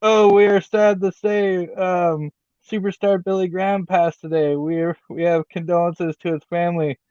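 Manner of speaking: hammed-up imitation of a commentator breaking sad news mid-match; a light take on a play-by-play voice turning somber; imitating Excalibur. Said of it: "Excalibur's like".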